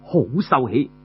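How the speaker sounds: slow, measured verse chant; poem recital. Acted. Storyteller recites a praise poem in slow measured verse. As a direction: recite each line slowly like verse.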